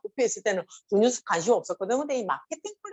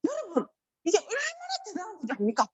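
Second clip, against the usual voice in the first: imitating a presenter's big rhetorical question, pitched high; mock grand speech to the crowd; booming presenter voice; 9 semitones higher, 4 dB quieter than usual. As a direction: rouse the room like a seminar speaker. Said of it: "목소리 막 크게".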